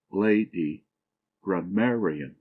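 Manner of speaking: "lady" stressed on LA, "grammarian" on MAR; syllable stress. Shown as a demonstration. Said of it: "a particular stress of voice laid upon a certain syllable".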